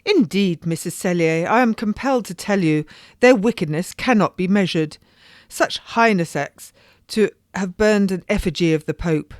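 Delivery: a lady declaring outrage; indignant lady. Acted. Lady telling her friend of the wicked procession, indignant.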